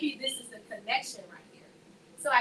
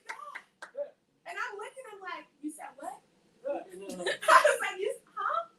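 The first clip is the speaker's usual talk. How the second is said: much higher, squeaky stunned voice; laughing, high-pitched, can't-believe-it reaction; high disbelief; 8 semitones higher than usual. Retold or imitated.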